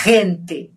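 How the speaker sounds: "Gente" starting with a strong throat friction; throaty Spanish G. Shown as a demonstration. Teacher repeats the example, throaty G in "Gente". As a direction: rasp the first sound of "Gente", no trill. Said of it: "na garganta".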